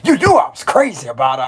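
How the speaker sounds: lightly hammed-up comic character quote; playful imitation with jumpy pitch; movie-quote impression. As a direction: act out a goofy film line. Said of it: "How he said that?".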